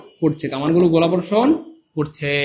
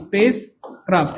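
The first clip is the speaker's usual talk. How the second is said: slow drill; much slower than usual. Shown as a demonstration.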